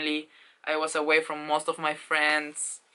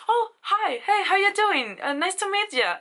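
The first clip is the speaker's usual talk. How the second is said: high, bubbly friendly greeting; friendly Tom; 5 dB louder than usual. Retold or imitated. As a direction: greet her warmly, pitched high. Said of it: "And he was like".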